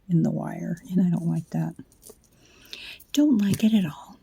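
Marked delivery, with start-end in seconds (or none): 3.1-4.2 whisper. Real, not acted. Late night, whispering while crafting.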